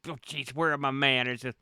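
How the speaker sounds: a hint of a chatty local, apologetic then inviting; fussing over manners, then slyly inviting; lightly voiced Boston guy. GM as the Boston man inviting the player over, lightly voiced. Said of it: "he looks down and goes".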